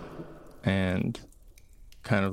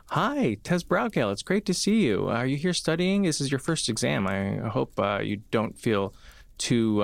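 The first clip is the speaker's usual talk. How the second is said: put-on cheerful young woman; faster than usual. GM voices cheerful Rosie.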